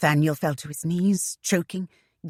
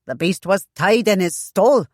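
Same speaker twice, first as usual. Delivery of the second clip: puffing; 4 dB louder than usual. Acted. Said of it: "Trahan puffed".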